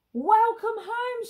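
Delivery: high, loud, slow welcome; shouted welcome. Acted. Villagers welcoming the pirates home, loud and high. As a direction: call it out joyfully and slowly. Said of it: "shouts the visitors".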